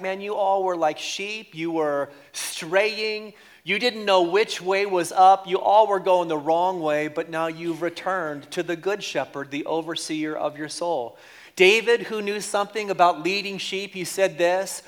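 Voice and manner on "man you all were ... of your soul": loose street-talk retelling of the verse; relaxed everyday retelling; casual paraphrase. Shown as a demonstration. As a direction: say it like a buddy talking straight. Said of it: "He's like".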